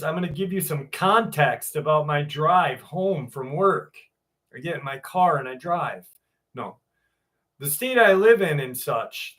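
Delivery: reading a personal account aloud; measured read-aloud storytelling; story narration. A narrator's reading. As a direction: narrate a true scary story to an audience. Reads out a listener's story.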